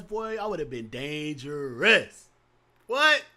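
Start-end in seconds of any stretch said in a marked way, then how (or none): 2.9-3.2 mock surprise. Mock surprised reaction to eyes.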